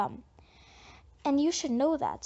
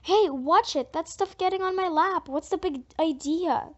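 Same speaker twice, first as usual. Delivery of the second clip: indignant; 3 semitones higher, 3 dB louder than usual. Acted. Girl angry at spilled punch.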